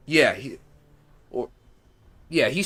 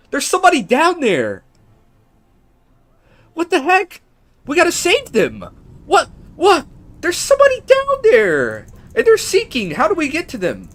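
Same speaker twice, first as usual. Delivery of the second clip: high, loud panicked cries; frantic high-pitched yelling; panicked shrieking; 8 dB louder than usual. Real, not acted. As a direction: shriek in real alarm at someone sinking. Spots drowning NPC, panics.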